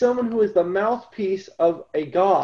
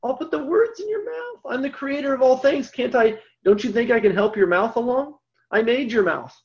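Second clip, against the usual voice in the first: God reassuring Moses; 6 semitones higher than usual. Retold or imitated. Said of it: "And he says".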